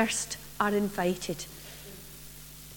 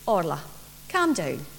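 calming; 5 semitones lower than usual. Acted. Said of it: "Mum said just calm down".

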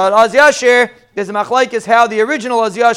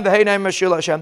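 softer answering echo of the leader's words; congregation answers; 2 semitones lower, 5 dB quieter than usual. Shown as a demonstration. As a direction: echo back the words quietly, as the crowd. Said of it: "They repeated after him".

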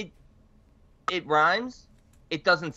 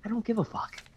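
a put-on voice, softer, quoting Christian; imitating Christian; 6 semitones higher, 7 dB quieter than usual. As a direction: drop in Christian's usual blunt line. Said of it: "he would chime in and say".

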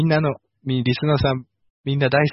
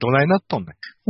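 fast teasing Kansai dialect; mock Kansai retort; faster than usual. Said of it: "京都の山田社長".

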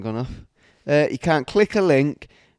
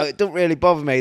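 mock-casual hard-man voice; imitating a tough client; 4 semitones higher, 4 dB louder, faster than usual. Tattooist mocking a client who claims it doesn't hurt, mock-casual. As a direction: play it cool, brushing it off. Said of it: "they go".

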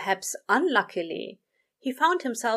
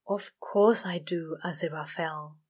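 exasperated; 2 semitones lower than usual. Acted. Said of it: "Crowley said exasperatedly".

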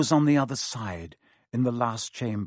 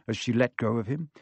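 ordinary delivery

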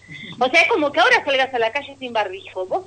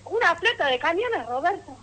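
incredulous echo; 7 semitones higher, 4 dB quieter than usual. Retold or imitated.

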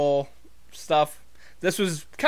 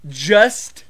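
words breaking into giggles; barely holding back laughter; trying not to smile; slower than usual. Real, not acted. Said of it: "I can't even keep a straight face".

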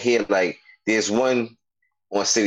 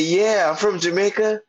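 put-on Jamaican accent; 12 semitones higher than usual. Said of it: "started talking Jamaican".

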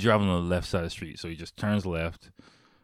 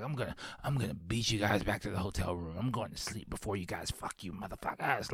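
belligerent taunt; 7 dB quieter than usual. Retold or imitated. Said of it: "belligerent, like, you know, yelling at them".

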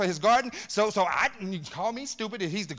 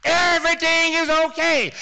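mock soothing reassurance; 9 semitones higher, 10 dB louder than usual. Mocking soft-gospel churches.

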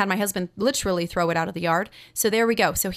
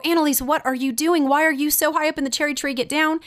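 raised-pitch mother's scolding alarm; retold alarm; 5 semitones higher than usual. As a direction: act out a worried mom calling up a tree. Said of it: "of course that terrifies me".

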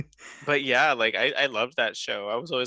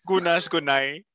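slow, high sing-song goodnight; sign-off voice; 4 semitones higher than usual. Pretend. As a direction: drawl it out as a farewell. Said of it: "sign-off voice".

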